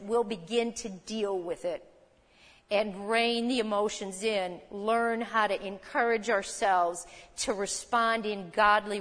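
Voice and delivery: earnest pastoral prayer, gently fading; closing prayer. Real, not acted. Pastor closes the service in prayer, calm and earnest. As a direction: lead the church in prayer, settling down.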